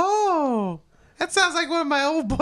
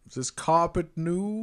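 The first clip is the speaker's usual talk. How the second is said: Robin Leach; 10 semitones lower, 6 dB quieter than usual. Pretend. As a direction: play a smug TV host. Robin voice continued.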